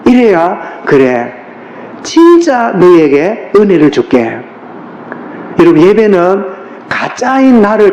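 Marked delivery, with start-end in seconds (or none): 0.8-4.4 voice of God answering. Acted.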